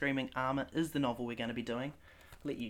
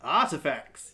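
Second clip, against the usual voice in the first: chiming in; 2 semitones higher, 10 dB louder, slower than usual. Acted. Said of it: "your dad chimes in".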